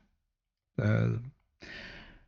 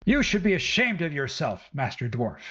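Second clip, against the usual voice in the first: scolding mother; 4 semitones higher, faster than usual. Acted. Woman scolds the dwarf.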